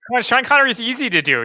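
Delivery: ordinary talk, nothing marked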